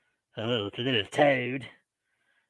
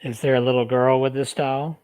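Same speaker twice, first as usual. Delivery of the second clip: calling to spirit. Acted. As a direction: ask each question clearly for the recorder. Questions spirit on recorder.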